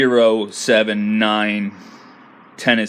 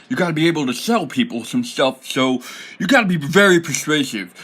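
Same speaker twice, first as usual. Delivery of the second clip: silly goblin voice, pitched up; goblin accent; 4 semitones higher than usual. Shown as a demonstration. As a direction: sales talk in a comic goblin accent. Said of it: "all goblins sound like this".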